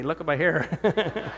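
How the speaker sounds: slow, laughing through the words; laughing prank. Retold or imitated. Son in a bad wig pranks his mom, laughing. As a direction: barely hold in the laugh.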